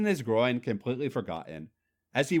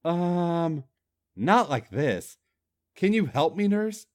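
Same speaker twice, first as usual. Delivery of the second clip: whimpering; 4 semitones higher, slower than usual. Acted. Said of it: "Skip whimpered".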